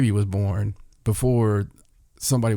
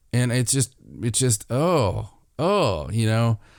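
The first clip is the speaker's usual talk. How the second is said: ordinary talk, nothing marked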